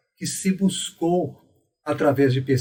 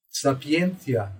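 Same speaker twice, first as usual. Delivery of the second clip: sapientia said slowly, stress on "en"; slow, weight on the syllable before the breve; much slower than usual. Shown as a demonstration. Teacher models the stressed syllable slowly. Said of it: "Por isso é que eu disse".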